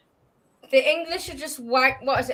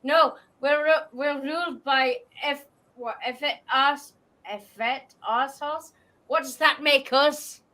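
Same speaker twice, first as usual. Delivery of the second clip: Scottish quote. Retold or imitated. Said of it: "Okay, so the quote is".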